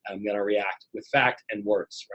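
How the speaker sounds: low, composed inner voice; calm self-talk. Acted. Brain choosing facts over emotion, calm self-talk. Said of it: "we have the ability to go".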